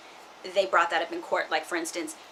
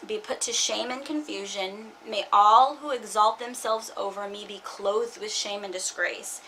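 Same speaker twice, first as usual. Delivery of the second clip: scripture reading. Acted. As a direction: read the psalm like a plea. Reads a psalm aloud.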